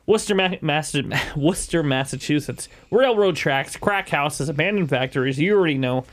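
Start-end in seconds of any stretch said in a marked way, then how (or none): 0.1-0.3 Boston accent. Shown as a demonstration. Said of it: "You gotta say it with a Boston accent". 1.3-1.8 Boston accent. Shown as a demonstration. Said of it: "You gotta say it with a Boston accent".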